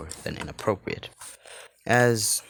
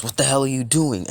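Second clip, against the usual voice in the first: high, loud, fast demand; alarmed anger; 7 semitones higher, 5 dB louder, faster than usual. Acted. Rei seeing his dragon fade away, loud angry alarm. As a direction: burst out in outraged alarm.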